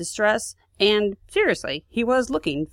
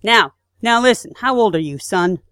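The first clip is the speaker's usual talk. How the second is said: a touch of a stern saboteur, louder; acting as Dash; 3 semitones higher, 6 dB louder than usual. Saboteur leans on the young guard, mildly stern and louder. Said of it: "I'm Dash".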